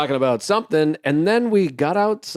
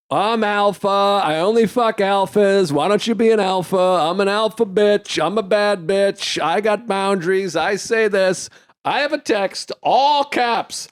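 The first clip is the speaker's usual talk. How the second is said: higher, mocking bossy Karen voice; 5 semitones higher than usual. Comedian mocking Karen's alpha boasts, higher mock voice. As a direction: sneer it out like a self-declared alpha. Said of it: "Karen is like".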